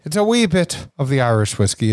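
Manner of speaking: lightly faked Irish lilt; bad Irish accent. Host introducing tonight's whiskey, poor mock Irish accent. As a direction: slip into a not very good Irish accent. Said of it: "I was using an accent that wasn't very good".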